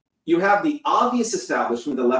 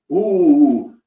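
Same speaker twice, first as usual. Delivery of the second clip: mock white liberal; 7 dB louder than usual. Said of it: "white liberals will say".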